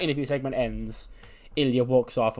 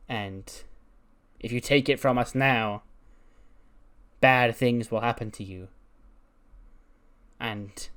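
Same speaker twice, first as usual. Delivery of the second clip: lightly voiced witch. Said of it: "the voices of the witches, like, echoing over".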